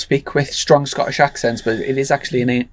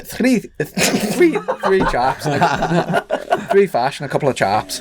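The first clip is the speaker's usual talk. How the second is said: a shaky go at a Scottish accent, higher pitched; attempted Scottish accent; 3 semitones higher than usual. Shown as a demonstration. Host trying Scottish on request, lands nearer Irish, hammed-up accent. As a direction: put on a bad Scottish accent, stumbling into laughter. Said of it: "Can you do a Scottish accent?".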